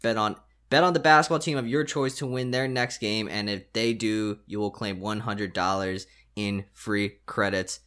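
upbeat sponsor read, pushing the offer. Acted. Host reads the sportsbook ad to listeners, upbeat ad read. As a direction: sell it like a podcast ad spot.

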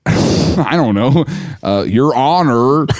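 slow, hesitant nervous lawyer; haltingly acted courtroom nerves; mock nervous. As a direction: drag it out as if unsure before a judge. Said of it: "he's nervous".

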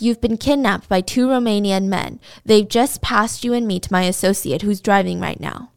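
ordinary talk

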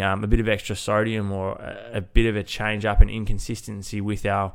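blocked nose, nasal voice. Real, not acted. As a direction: talk through a stuffy nose. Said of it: "the nasally voice that you'll probably hear in today's episode".

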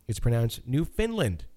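NEWfoundLAND, weight on land; stress on LAND. Shown as a demonstration. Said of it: "with the emphasis on land".

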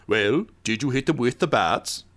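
lightly gruff henchman on a radio. Acted. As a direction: put on a slightly gruff radio voice. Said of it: "a gruff voice say".

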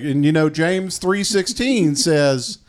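slow, lightly voiced sermon quote; hammed-up slow scripture reading; mock biblical prophet. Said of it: "he's like".

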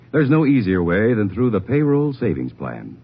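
normal talking voice

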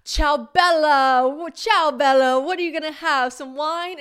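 high, loud, drawn-out ciao bella; hammed-up Italian greeting. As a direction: she covers the slip with a loud sing-song greeting. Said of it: "and I was like".

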